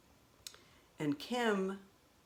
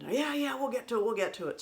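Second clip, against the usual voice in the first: higher, dismissive mock brother; brushing it off; 7 semitones higher than usual. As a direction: toss it off like a busy big brother.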